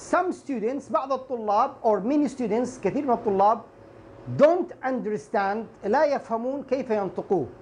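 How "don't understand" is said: don't understand stretched out very slowly. Shown as a demonstration. Teacher slowly saying an English phrase for students. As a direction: spell out the phrase for learners. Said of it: "teaching English phrase".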